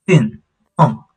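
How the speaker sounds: 'Yuen Dong' falling on each syllable; falling tones. Shown as a demonstration. Teacher applies the falling tone to the word, falling 'Yuen Dong'. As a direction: let both 'Yuen' and 'Dong' drop. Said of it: "the falling tone".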